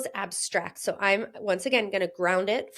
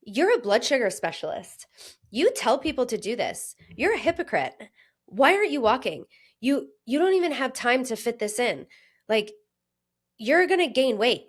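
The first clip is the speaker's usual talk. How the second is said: harsh self-critic; 2 semitones higher than usual. Retold or imitated. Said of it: "My default is to be like".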